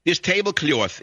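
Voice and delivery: Jackie Kennedy. Shown as a demonstration. Host showing listeners they share an accent, New York accent. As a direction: draw out the New York vowels in "tablecloth". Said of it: "this is how New Yorkers speak".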